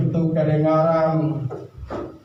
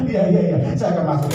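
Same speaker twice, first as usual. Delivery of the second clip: laughing; 4 semitones higher, faster than usual. Acted. Laughing forced cheer.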